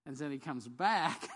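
slow "comes back" with a catch of crying; tearful retake. Shown as a demonstration. Preacher retelling Christ's return after the congregation laughs, tearful. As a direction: say it moved, almost in tears. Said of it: "some of you think that was funny".

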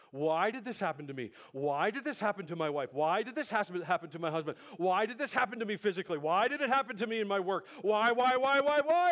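loud, high pleas building to a shouted run of whys; anguished outcry. Acted. Acting out anguished questions to God.

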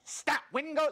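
high, loud, frantic commands to the storm; mock shouting at the wind. Panicked disciples shouting orders at the storm, mock yelling. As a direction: yell at the waves like panicked disciples. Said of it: "they're rebuking the waves".

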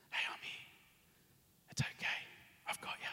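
soft, unvoiced whisper, gentle and close; whispered reassurance, barely any voice; God's whisper. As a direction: breathe it like a tender secret. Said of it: "the whisper".

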